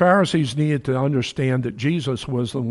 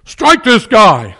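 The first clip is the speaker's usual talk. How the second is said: drawn-out, loud command to strike; high priest ordering a guard to strike; mock order to strike; 5 semitones higher, 9 dB louder, much slower than usual. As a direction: bark out a slow order to hit him. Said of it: "it's like".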